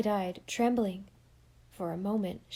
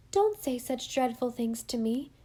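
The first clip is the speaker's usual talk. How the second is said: stammering; 4 semitones higher than usual. Acted. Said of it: "she stammered".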